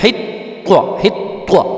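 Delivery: حطوا whispered, ط jolted; whispered demo. Shown as a demonstration. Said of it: "تھوڑا سا جھٹکا دے کے". (سرگوشی میں حطوا، ط پہ جھٹکا)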